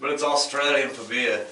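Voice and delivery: mock Aussie beer slogan; bad Australian accent. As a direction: attempt an Australian accent, badly. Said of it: "Australian accent of all time".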